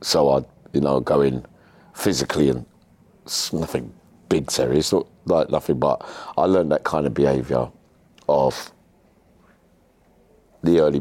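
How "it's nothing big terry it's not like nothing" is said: ordinary talk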